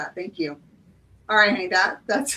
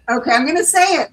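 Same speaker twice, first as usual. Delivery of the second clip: psyched-up resolve; 5 semitones higher, 7 dB louder, faster than usual. Real, not acted. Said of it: "steeling herself to say it".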